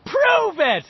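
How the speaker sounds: loud, high taunt; shouting, laughing. A narrator's reading. Richie taunting Henry with a loud laughing dare. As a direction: throw back a cocky dare. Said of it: "Richie shouted, laughing".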